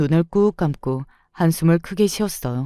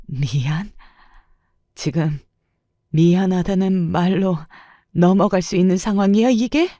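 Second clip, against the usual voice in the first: incredulous anger; 2 semitones higher than usual. A narrator's reading. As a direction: throw the apology back at him. Wife confronts apologizing husband.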